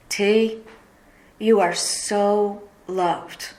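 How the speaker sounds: slow, tender words from a loving friend; tender quote. Retold or imitated.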